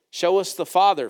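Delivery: lifted, pleading quote of Philip; Philip asking. Retold or imitated. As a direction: voice the disciple's plea a bit brighter. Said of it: "Philip says".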